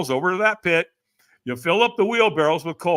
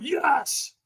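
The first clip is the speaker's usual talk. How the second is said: higher, more committed yes; stronger yes; 9 semitones higher than usual. Retold or imitated. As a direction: try to mean it. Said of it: "And I went".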